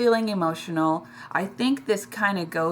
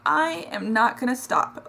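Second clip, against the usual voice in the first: tearful resolve; 5 semitones higher than usual. Real, not acted. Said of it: "This is an emotional one this week".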